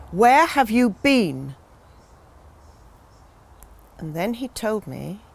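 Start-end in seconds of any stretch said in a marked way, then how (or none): 0.1-1.5 louder, higher, drawn-out question; demanding reproach. Acted. Woman to the gardener who vanished, loud, drawn-out reproach. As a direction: stretch it out as an indignant demand.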